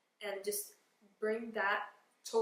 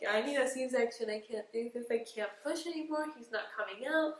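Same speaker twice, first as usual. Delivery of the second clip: crying plea; 5 dB louder than usual. Retold or imitated. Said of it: "sitting there crying".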